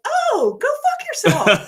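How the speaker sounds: high, loud, drawn-out comeback; hammed-up indignant "oh", then a slow brush-off; mock indignant retort. Storyteller retells her retort to the yelling ladies, loud mock indignation.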